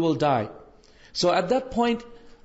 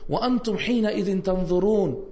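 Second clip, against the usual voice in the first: fast, flowing recitation of a verse; Quran recitation; 2 semitones higher, much faster than usual. Acted. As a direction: recite it smoothly, devoutly.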